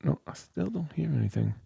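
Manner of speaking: high-pitched voice. Shown as a demonstration. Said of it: "Oh, and I think now".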